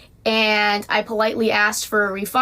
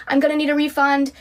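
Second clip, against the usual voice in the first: calm request; 5 semitones higher than usual. Retold or imitated. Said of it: "I said very calmly".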